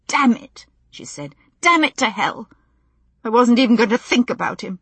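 angry through tears; tearful anger. A narrator's reading. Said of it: "swiped the tear angrily".

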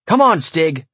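loud urgent call; yelling. A narrator's reading. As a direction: shout for the dog to hurry. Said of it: "I yelled".

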